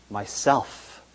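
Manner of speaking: Myself breathed out barely audible; soft whisper. A narrator's reading. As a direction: say Myself so softly it is hardly heard. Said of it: "whispered so softly you could hardly hear it".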